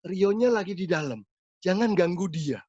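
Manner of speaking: lightly voiced eerie woman warning you off; a spirit speaking through the youth, mildly eerie; creepy woman's voice. Possessed youth warns the pastor off in a woman's voice. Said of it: "suaranya tuh serem banget".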